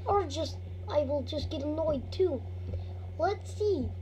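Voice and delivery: kid's put-on Russian accent. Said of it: "I'm gonna stop that now".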